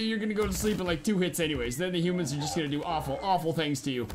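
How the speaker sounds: normal talking voice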